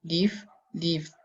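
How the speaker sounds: "live" then "lived", changed ending demonstrated; final sound of "lived" shown. Shown as a demonstration. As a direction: show the added final d in "lived". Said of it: "La pronunciación cambia un poquito al final". (pronunciación del final de "lived")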